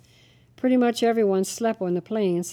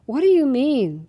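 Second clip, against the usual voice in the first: louder, higher indignant question; loud demand; 6 semitones higher, 7 dB louder than usual. A narrator's reading. Angry guest demands clerk answer, loudly. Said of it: "the man asked rather loudly".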